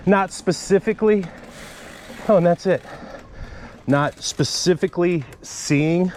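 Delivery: panting between phrases after a climb; breathless, gasping words out; out of breath. Real, not acted. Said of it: "sorry, I'm out of breath".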